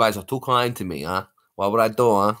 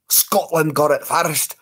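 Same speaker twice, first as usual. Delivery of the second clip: whisper; 5 semitones higher, 3 dB louder, slower than usual. Pretend. Whispered rival voice.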